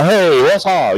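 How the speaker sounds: put-on light Yiddish-accented greeting. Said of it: "That's your Yiddish accent?".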